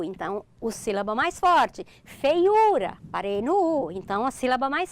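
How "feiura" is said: "Feiura" called higher, leaning on the "u"; called like a name. Shown as a demonstration. Teacher testing where the stress stops, called like a name. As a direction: call out "Feiura" as a name, stretching the "u". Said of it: "chamar a palavra como se ela fosse um nome".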